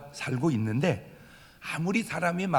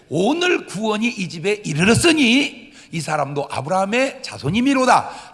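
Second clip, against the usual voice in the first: Jesus declaring; 3 semitones higher, 4 dB louder than usual. Acted. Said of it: "예수께서 이르시되".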